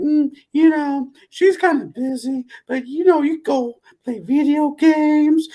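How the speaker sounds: put-on very high, slow, small little-boy voice. Retelling answering a boy's calls for a daughter: imitating the boy's voice. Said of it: "doing his voice".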